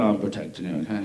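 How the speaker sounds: mock-tough reassurance from a dim dog; dopey loyal dog. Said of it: "looks at you going".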